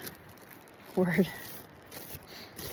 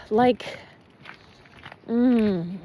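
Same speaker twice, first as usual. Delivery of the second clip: bee buzz imitation. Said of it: "The whole tree sounded like".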